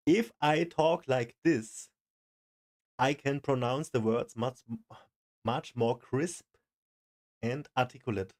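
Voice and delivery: slow, "if I talk like this" with big mouth movements; over-articulated. Shown as a demonstration. Viewer practising the tip, "crisp and articulate" over-articulated. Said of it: "you move your, your mouth, you over-articulate".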